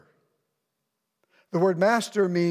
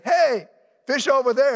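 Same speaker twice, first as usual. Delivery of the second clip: much higher, louder breezy know-it-all call; know-it-all stranger; 7 semitones higher, 7 dB louder than usual. Acted. Guy in a suit calling out fishing advice, breezy know-it-all.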